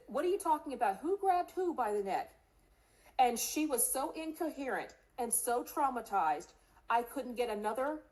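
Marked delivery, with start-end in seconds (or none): 0.1-2.3 urgent questions. Retold or imitated. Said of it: "I said".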